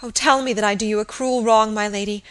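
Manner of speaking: high, loud, agitated voice; anguished pleading. A narrator's reading. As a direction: beg desperately to be told you're wrong. Kneeling maid accuses and begs.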